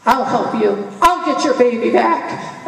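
loud, slow tough-guy impression; thick Italian voice, hammed up; Sylvester Stallone. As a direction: imitate a thick-accented action hero. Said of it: "he was Sylvester Stallone, like Rambo".

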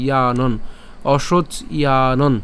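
"অশোচ ইয়ানন" slowly, split after the ch; syllable demonstration. Shown as a demonstration. Teacher breaking up the verse, slow separated "অশোচ ইয়ানন". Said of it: "তাহলে ইয়ানন পর্যন্ত উচ্চারণ করি".

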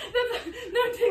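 fast, laughing protest while tickled; squealing through giggles; being tickled. Real, not acted. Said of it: "Don't tickle me!".

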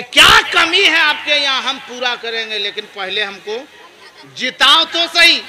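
lightly voiced politician making a campaign promise; a hint of a rallying politician; lightly acted politician. Politician promising voters help if they elect him, lightly acted. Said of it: "नेताजी इसी तरीके से".

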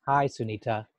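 a low, downbeat greeting; different mood. Shown as a demonstration. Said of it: "That tone in my voice suggests ... a different frame of mind".

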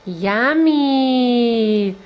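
sing-song yummy. Real, not acted. Encouraging baby's first bite.

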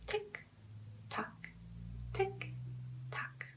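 very soft, spaced-out clock ticks; clock ticking. Shown as a demonstration. Teacher showing children a clock's sound, hushed ticking. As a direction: tick softly, leaving gaps between.

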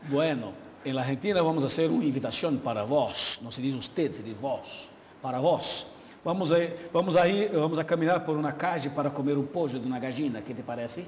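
chatty Argentine Spanish with a lightly put-on accent; hint of Argentine accent, casual invitation. Shown as a demonstration. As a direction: invite a friend like a Buenos Aires local. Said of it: "Tem o traquejo pra falar espanhol?".

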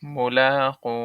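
মুলাকু recited with long held vowels; slow, sustained recitation of মুলাকু; madd in মুলাকু. Shown as a demonstration. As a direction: stretch the la and the final u of মুলাকু. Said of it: "এক আলিফ মাদে আসলি".

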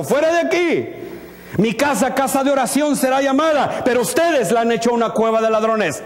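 high-pitched indignant rebuke, acted out; Jesús, angry. Preacher voices Jesus rebuking the temple merchants, angry. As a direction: imitate a righteous, angry eviction. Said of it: "cuando está enojado y dijo".

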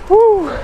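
high, loud woo of delight; a real joyful woo on the bike; excited whoop. Real, not acted. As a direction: whoop out loud with the thrill of the ride. Excited whoop while riding.

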